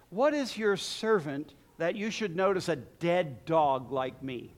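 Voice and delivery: soft, low self-abasing plea; humble murmur. Acted. Preacher voicing Mephibosheth, quiet and humbled. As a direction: voice a cringing servant quietly.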